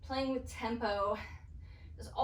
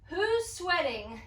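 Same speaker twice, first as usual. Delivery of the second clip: excited; 4 semitones higher, 3 dB louder than usual. Real, not acted. Instructor hyping class mid-workout.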